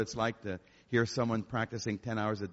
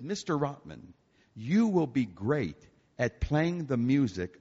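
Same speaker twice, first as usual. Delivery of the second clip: stern professor; 4 dB louder than usual. Retold or imitated. Composition teacher cornering his student in the hallway, stern and loud. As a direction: lay down the law, finger at his nose.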